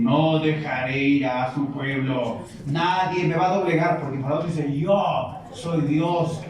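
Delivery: slow, haughty; arrogant pharaoh. Acted. Pharaoh refusing to free the people, slow and arrogant. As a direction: drag out each boast proudly.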